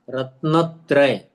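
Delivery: रत्नत्रय said slowly, no extra n sound; careful रत्नत्रय, each syllable clear; correct pronunciation. Shown as a demonstration. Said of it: "कुछ लोग उच्चारण करते रत्नंत्रय". (रत्नत्रय का सही उच्चारण)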